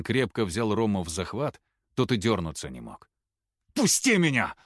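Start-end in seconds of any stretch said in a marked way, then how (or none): 3.7-4.5 very high, loud struggling shout; raging yell. A narrator's reading. Рома, held by Нурлан, screams in rage. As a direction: scream as you fight the hold.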